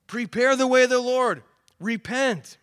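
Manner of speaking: loud, high prophet's call to repent. Pretend. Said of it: "the voice of John calling out".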